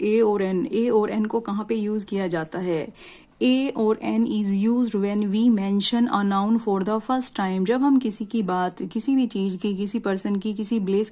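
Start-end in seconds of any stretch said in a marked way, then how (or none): 3.4-7.6 slow reading. Shown as a demonstration. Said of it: "reads rule from the board".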